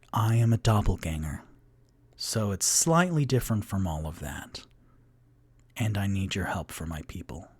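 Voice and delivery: low, hushed creature voice; doppelganger's true voice. Acted. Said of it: "stance and goes".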